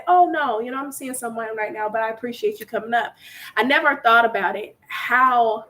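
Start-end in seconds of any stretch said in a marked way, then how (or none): 0.1-3.1 polite decline. Shown as a demonstration. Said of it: "you can say".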